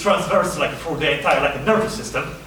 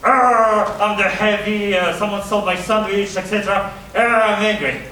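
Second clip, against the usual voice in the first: stiff announced anger; 3 semitones higher than usual. Shown as a demonstration. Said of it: "you shouldn't be like".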